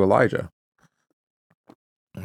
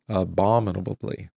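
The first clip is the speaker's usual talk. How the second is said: "Abominably" with the stress on BOM; accent on right syllable. Shown as a demonstration. Reader showing where the accent goes, "Abominably" stressed on BOM. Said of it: "put the accent on the right syllable".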